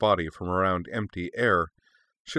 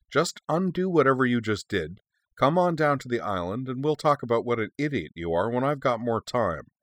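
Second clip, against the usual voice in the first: high-pitched, testy backtalk; indignant retort; 4 semitones higher than usual. Acted. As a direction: argue back impatiently at an overbearing elder. Young dragon arguing with her cousin.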